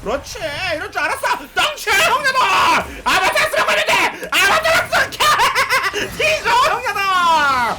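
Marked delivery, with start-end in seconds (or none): 2.1-7.7 high-pitched excited shouting with laughter; 흥분한 고함. Real, not acted. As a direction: yell gleefully as you chase the kill. 신나게 적을 쫓는 게임 중. (신나서 웃으며 높게 외치는 목소리)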